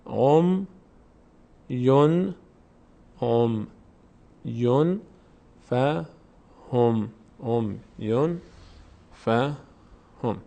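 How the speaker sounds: spaced-out syllables with pauses between; slow, measured reading drill. Shown as a demonstration. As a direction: sound out each syllable separately for learners. Teacher drills words syllable by syllable.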